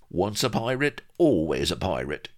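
high start dropping, a touch of amusement; mildly amused pirate sidekick; chuckled. A narrator's reading. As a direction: say it with an understated chuckle. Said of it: "chuckled Vladimir".

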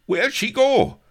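high, loud whining call; plaintive cry. Acted. Viceroy loses his dance partner, high plaintive cry. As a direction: wail after her like a lost child. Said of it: "plaintive cry of".

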